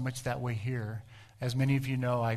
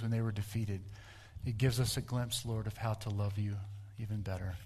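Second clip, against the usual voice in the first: closing prayer; 2 semitones lower than usual. Acted. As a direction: lead the church in a gentle closing prayer.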